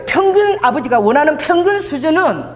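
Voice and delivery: call to repeat. Shown as a demonstration. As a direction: lead the congregation, raise your voice on 평균. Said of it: "그러니까 따라해보세요".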